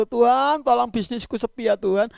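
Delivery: half-acted wail, begging for help; mock wailing prayer. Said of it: "langsung nangis, "Gero-gero".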